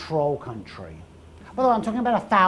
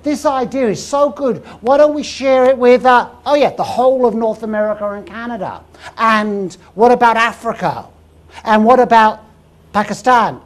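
loud, raised, carried away by a great idea; excited brainwave; 4 semitones higher, 8 dB louder than usual. Retold or imitated. King planning to share his law abroad, acted excitement. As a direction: pile up the suggestions with mounting enthusiasm, loudly. Acts out king's expanding idea.

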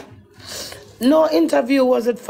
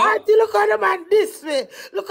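tearful plea; 4 semitones higher than usual. Real, not acted. Upset woman pleading with auntie.

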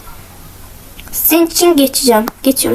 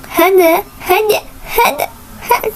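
climbing higher with each repeat; urging on; 6 semitones higher than usual. Real, not acted. Player urging themselves through a tricky move, tense and rising. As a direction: urge it on, pitch rising sharply.

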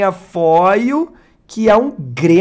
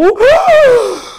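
sharp high gasp of shock; awestruck gasp; 7 dB louder than usual. Real, not acted. Opening a prized card on camera, shocked high gasp. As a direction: gasp like you can't believe your eyes.

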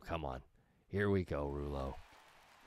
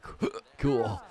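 hiccup gasp; 5 semitones higher, 7 dB louder than usual. Real, not acted.

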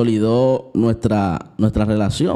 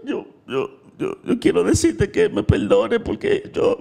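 much higher, whimpering imitation of her sobbing; ex-girlfriend begging forgiveness in tears, hammed up and much higher; mock crying voice. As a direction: squeak out the plea as if choking on tears. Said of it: "se le paraba la voz así mismito".

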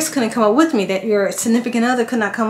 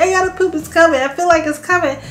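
urgent pain; 7 semitones higher than usual. Retold or imitated. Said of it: "I was like".

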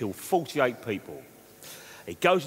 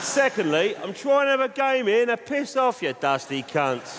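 higher and louder, snapping at the cowboys; mock angry outburst; 8 semitones higher, 3 dB louder than usual. Telling off the cowboys.

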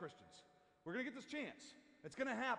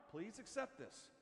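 slow, soft, respectful plea; loving appeal; 6 dB quieter, slower than usual. Shown as a demonstration. Showing how we should confront, lovingly. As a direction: ease into a gentle, sincere request. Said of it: "exactly how we should confront".

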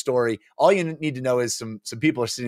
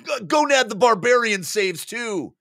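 higher, spluttered claim; mouthful player; 12 semitones higher than usual. Acted. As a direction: talk through soggy chips. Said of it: "Muffy said".

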